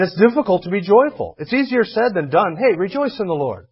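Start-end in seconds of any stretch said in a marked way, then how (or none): 2.6-3.7 glib cheer. Retold or imitated. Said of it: "Walk up to somebody".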